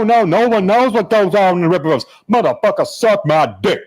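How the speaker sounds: animated, swearing tirade in a put-on voice; Eric July. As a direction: tell off a lawyer in a mimicked, indignant rant. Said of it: "the speaker as July".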